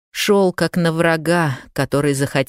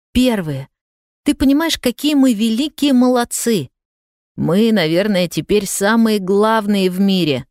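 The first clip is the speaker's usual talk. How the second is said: put-on excited boy; 3 semitones higher than usual. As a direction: brag to grandma about the cosmos. Boy proud of space success. (мальчик восторженно хвалится бабушке)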